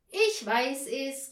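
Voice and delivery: loud, slow triumphant cry; mother calling out the answer; excited call. A narrator's reading. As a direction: announce it like you solved the riddle. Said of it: "rief da Frau Postel".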